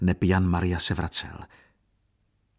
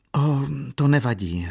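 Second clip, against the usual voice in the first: higher, brave little brush-off holding back tears; weak smile through tears; 6 semitones higher than usual. A narrator's reading. Katerina to the priest, suppressing tears, faint brave smile. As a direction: make light of it, tears held back. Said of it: "řekla se slabým úsměvem a potlačovala slzy".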